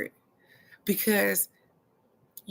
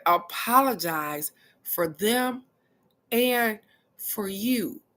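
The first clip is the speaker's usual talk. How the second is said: slower, drawn out, word by word; slow emphatic reread; slower than usual. Shown as a demonstration. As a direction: let each word land, slowly. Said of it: "Did you see that? It said".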